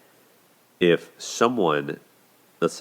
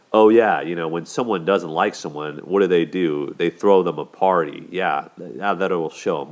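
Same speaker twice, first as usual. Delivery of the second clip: a touch of sarcastic mockery, a bit louder; 5 dB louder than usual. Husband mocking his wife's complaint, mild sarcastic jab. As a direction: lightly play the snide husband mocking her. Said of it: "that sarcasm of".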